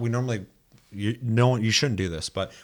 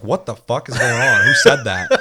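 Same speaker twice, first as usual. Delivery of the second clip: startled panic; 9 dB louder than usual. Retold or imitated. Panicked reaction to the alarm.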